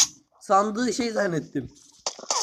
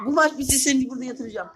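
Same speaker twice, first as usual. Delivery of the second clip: laughing shout; 3 semitones higher than usual. Real, not acted. Laughing shout during game.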